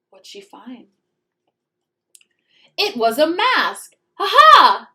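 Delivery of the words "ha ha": loud, high gloating cackle; triumphant witch laugh. Acted. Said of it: "said Miss Swamp".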